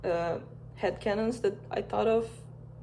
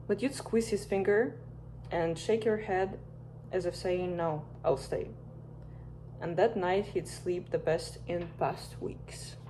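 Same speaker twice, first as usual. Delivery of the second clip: gentle, unhurried story narration, mostly soft; bedtime story reading; 5 dB quieter than usual. A narrator's reading. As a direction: read it like a bedtime story for a listener drifting off. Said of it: "as a bedtime story".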